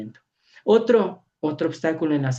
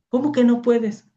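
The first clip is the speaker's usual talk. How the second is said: higher-pitched incredulous question; startled disbelief; 8 semitones higher, 4 dB louder than usual. Retold or imitated. Priest answers the woman who says she can't, startled disbelief. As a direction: question it as if taken aback. Retells his startled reply to her.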